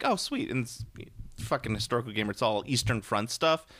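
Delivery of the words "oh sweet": mock excited. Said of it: "I was like".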